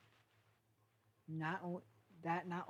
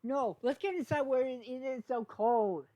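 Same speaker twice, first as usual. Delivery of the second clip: much louder and higher, slowing at the end; loud urgent call; 8 semitones higher, 10 dB louder than usual. Acted. Hitch urging all inside from the blizzard, loud call. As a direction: call everyone inside against the wind. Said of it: "He goes".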